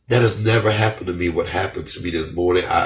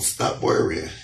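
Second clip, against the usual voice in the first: soft whisper of reassurance; a whispered comfort; 3 semitones lower, 4 dB quieter, slower than usual. Pretend. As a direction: breathe it out gently. God's message repeated softly.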